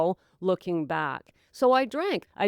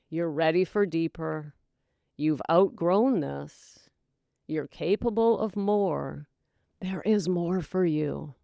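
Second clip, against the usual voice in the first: gentle inner voice; 2 semitones lower than usual. Retold or imitated. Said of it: "Divine discontent says".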